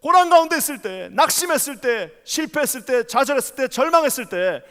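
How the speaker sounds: impassioned sermon, rising to ringing peaks; preaching. Acted. Pastor preaching fervently to the congregation. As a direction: preach it with full fervour to the church.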